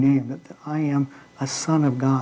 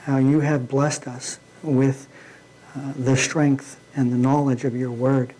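prayer. Acted. Closing prayer.

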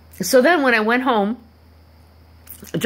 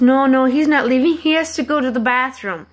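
insistent retold protest; 4 semitones higher than usual. Retold insistent reply to the lady.

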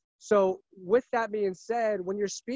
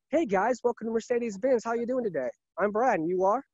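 warm welcome; 2 semitones higher than usual. Shown as a demonstration. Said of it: "I'm warm and welcoming".

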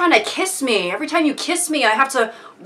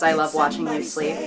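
creepy sing-song; 10 semitones lower, 7 dB quieter than usual. Retold or imitated. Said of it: "the thumbnail says".

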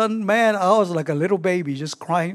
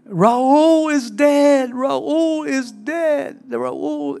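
retold screaming; 5 semitones higher, much slower than usual. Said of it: "on the other side of the phone was just screaming".

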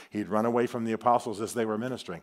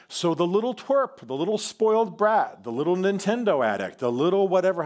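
mock scorn; 6 semitones higher, 4 dB louder than usual. Mock insults for young Mark.

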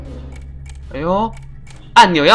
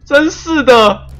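frustrated wails; 8 semitones higher, slower than usual. Real, not acted. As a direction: wail at missing by a hair. Narrowly fails timed challenge.

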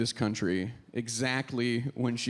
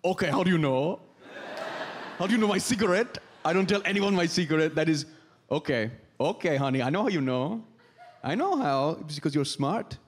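foreign coworker's accent, mock indignant; playful foreign-accented English; Hannah. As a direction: imitate a non-native coworker's accent. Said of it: "and she'd be like".

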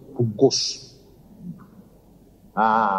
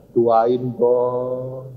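drawn-out, wheedling request; pleading; 3 semitones lower than usual. Retold or imitated. Sleepless wife nudging husband awake for prayer, pleading. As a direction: plead with the last word stretched.

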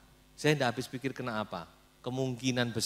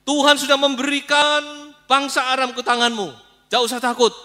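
eager prophets; 14 semitones higher, 12 dB louder than usual. Acted. Prophets urge Ahab to war.

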